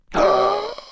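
high, sharp gasp; startled gasp. Pretend. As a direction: gasp suddenly as if struck. Attacked in the game.

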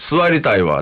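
imitated open, slow complaint; out-loud complaint. Child demanding a seat aloud, mock complaint. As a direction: voice it openly, drawn out. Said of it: "大きい声でそんな言うたことない".

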